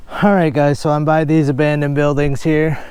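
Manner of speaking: winded from digging holes; panting between words, out of breath. Real, not acted. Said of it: "Sorry, I'm out of breath".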